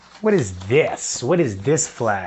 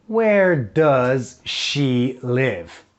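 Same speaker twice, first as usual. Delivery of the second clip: slow model question; much slower than usual. Shown as a demonstration. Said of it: "Ok, so".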